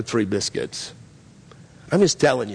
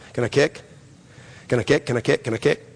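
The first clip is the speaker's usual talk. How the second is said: lightly imitated nagging child; mock persistent begging, barely changed voice; pestering kid; 2 semitones lower, faster than usual. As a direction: repeat it with a little rise each time. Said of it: "he asked and he asked and he asked".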